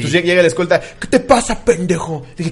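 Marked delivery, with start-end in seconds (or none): 1.0-2.2 mock bodyguard challenge. Bodyguard confronting him.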